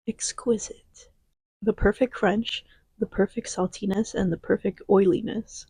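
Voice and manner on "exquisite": slow, breathless whisper of delight. Real, not acted. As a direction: savor the word in a whisper. Savoring the snack.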